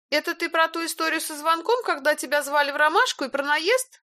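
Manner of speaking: high, gentle concern; caring. A narrator's reading. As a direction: ask him tenderly and worriedly. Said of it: "с трогательной заботой". (с трогательной заботой)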